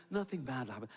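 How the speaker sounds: soothing, lulling flight-attendant voice; calm hypnotic voice. Retold or imitated. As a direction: lull them like a safety video. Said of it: "that calm, hypnotic voice".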